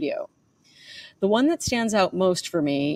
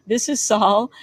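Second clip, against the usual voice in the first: whiny Saul voice; 4 semitones higher, 5 dB louder, slower than usual. Retold or imitated. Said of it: "a nasally, whiny voice".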